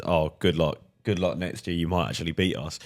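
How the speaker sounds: put-on light Liverpool Scouse accent; imitating a Scouse fan's Liverpool accent. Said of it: "in the thickest Scouse accent you've ever heard".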